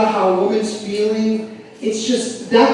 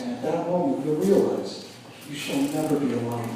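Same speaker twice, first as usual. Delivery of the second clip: low, soft sage advice; old man's wisdom; 4 semitones lower, 5 dB quieter than usual. Retold or imitated. Old guy at the bar advising the comic, soft low sage tone. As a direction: hand down wisdom gently, like a mentor. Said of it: "And the guy says".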